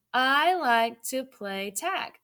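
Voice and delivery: put-on slow, word by word for young readers; slow read-aloud. Shown as a demonstration. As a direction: read it out slowly so kids can follow. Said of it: "Read it with me this time".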